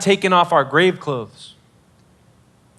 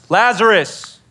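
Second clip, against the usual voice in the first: raised, projected call of a name; mild acted shout; 2 semitones higher, slower than usual. Jesus calling the dead man out of the tomb, restrained shout. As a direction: call out to him without fully yelling. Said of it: "and he shouts".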